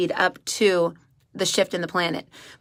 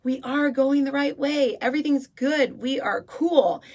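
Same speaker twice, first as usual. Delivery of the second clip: lightly voiced calm soul; 7 semitones higher than usual. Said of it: "our soul's like".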